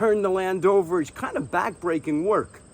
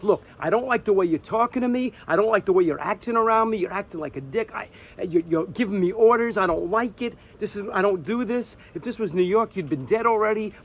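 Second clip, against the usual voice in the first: a hint of the angry tirade, only slightly raised; retold anger; 3 semitones higher than usual. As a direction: lace into the farmer with moderate heat. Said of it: "I'm mad".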